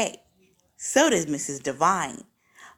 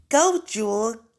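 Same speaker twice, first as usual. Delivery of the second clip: calling out louder to the dog; a cheerful louder call; yelling to dog; 3 semitones higher, 4 dB louder than usual. Acted. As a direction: call the puppy to fetch. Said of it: "I yell".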